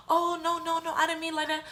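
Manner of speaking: high, squeaky mock innocence; high-pitched fake sweetness; mock backpedaling. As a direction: imitate someone hastily backtracking in a high voice. Supervisor backtracks to grandma.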